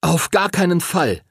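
high-pitched, firm refusal; calling out. A narrator's reading. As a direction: protest without really shouting. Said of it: "rief Henry".

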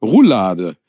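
Roulade said as ruˈlaːdə, slowly, instead of Rollladen; slow, clear Roulade the way grandma says it; mix-up of Rollladen and Roulade; Roulade pronunciation. Retold or imitated. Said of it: "habe ich nicht Rolllade gesagt".

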